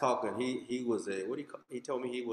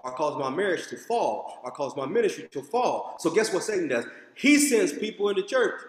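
louder, higher, hammering each line; full-force preaching; 6 semitones higher, 5 dB louder than usual. Acted. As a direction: preach it hard to the congregation.

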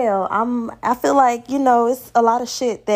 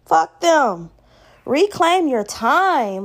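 dismissive advice; 7 semitones higher, slower than usual. Retold or imitated. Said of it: "I'm just like".

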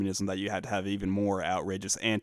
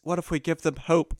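mock officer pitch; 7 semitones higher than usual. Mocking the film's officer.

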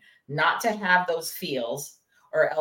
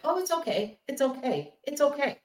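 1 brushing it off; 7 semitones higher, 4 dB quieter than usual. Retold or imitated. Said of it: "Orion was like".

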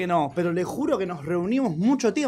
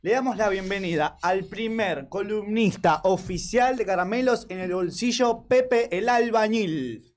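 radio announcer. Acted.

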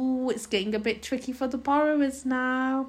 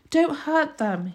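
slow, high-pitched plea; drawn-out, high entreaty; begging; 6 semitones higher, slower than usual. A narrator's reading. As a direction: beg like an upset boy. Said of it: "he begged".

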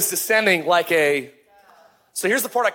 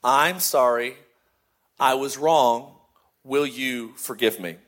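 sincere apology; 5 semitones lower than usual. Retold or imitated. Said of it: "I just said".

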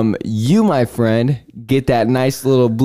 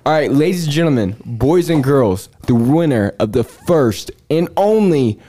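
grand entrance announcement; 3 semitones higher than usual. Pretend. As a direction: announce the champion like a ring MC. Mock grand champion announcement.

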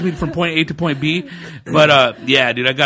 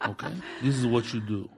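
hushed instructions; 4 semitones lower, 11 dB quieter than usual. Retold or imitated. Shady guy instructing.

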